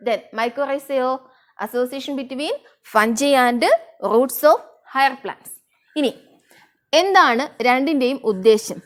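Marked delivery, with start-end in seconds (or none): 0.1-5.5 slow dictation. Shown as a demonstration. Teacher dictating a definition.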